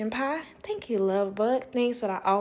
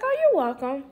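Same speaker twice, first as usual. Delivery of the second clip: sing-song welcome; 4 semitones higher than usual. Retold or imitated. Cheerful reply to the husband.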